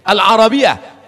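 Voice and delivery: Al-Arabiyah called out high, loud and slow; Arabic word declaimed. Shown as a demonstration. Preacher calling out the Arabic word to the crowd, high and loud. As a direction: proclaim Al-Arabiyah slowly. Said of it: "karena dia masuk negara Arab".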